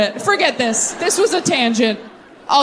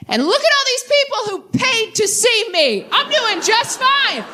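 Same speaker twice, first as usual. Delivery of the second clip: high, slow, smug gloat with laughter; mock smug; 9 semitones higher, slower than usual. Texting her ex about her big crowd, mock smug. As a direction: gloat sweetly through a laugh.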